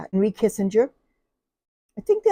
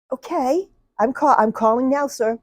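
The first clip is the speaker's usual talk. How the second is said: startled operator; 7 semitones higher than usual. Retold or imitated. Operator answering panicked caller.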